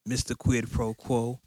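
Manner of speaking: smooth, slow late-night DJ; sexy radio host voice. Pretend. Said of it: "Why you doing this sexy Nighthawk voice?".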